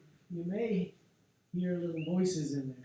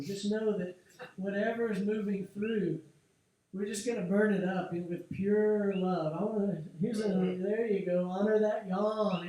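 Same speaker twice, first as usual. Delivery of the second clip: fervent encouragement; 3 semitones higher, 6 dB louder than usual. Real, not acted.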